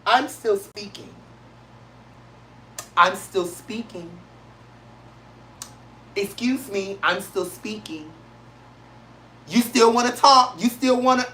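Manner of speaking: a light hint of Kamala Harris holding the floor; calm, composed politician voice, quietly insisting; Kamala Harris impression. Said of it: "in my Kamala Harris voice".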